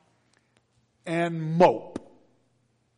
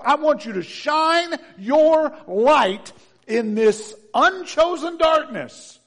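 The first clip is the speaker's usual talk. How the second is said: preaching at full force; 5 semitones higher, 9 dB louder than usual. Acted. Preaching God's charge, building.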